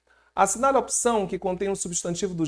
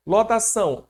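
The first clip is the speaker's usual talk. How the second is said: a touch of a teacher's stress on "Lotação", said louder and higher; stress on the article; 6 semitones higher, 5 dB louder than usual. Shown as a demonstration. Teacher contrasting genders, stresses the noun. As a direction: present "Lotação" as the masculine form, louder. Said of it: "O que que é o lotação".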